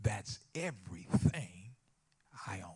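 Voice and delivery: crying, heartbroken voice. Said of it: "hear it in her voice".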